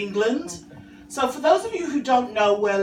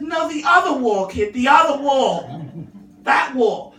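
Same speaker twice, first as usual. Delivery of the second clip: exasperated mum; 2 semitones higher, 6 dB louder than usual. Retold or imitated. Mum points at scribbled wall.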